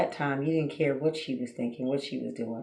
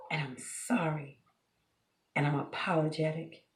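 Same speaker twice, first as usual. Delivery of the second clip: softer, acted-out heartfelt apology; sincere apology; 6 dB quieter than usual. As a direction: apologize softly, as if truly sorry. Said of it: "you're sincere?".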